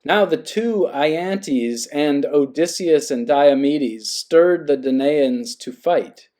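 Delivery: slow, measured reading of an epic verse; epic poem reading. Acted. Reading the Iliad aloud to the class, slow and measured. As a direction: read it out slowly like Homer.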